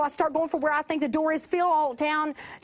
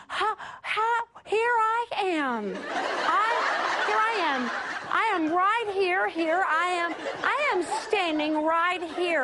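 polite voice; 2 semitones higher, slower than usual. Retold or imitated. Preacher calling politely into the dark to an unseen stranger. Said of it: "most polite voice".

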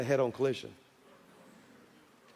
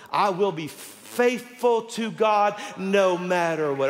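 rising shout; 4 semitones higher, much slower than usual. Retold or imitated. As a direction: cry it out like a promise. Preacher shouts the girl's vow.

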